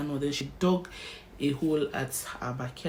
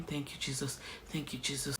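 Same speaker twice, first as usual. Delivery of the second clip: retold scream; 11 dB quieter than usual. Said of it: "I was screaming".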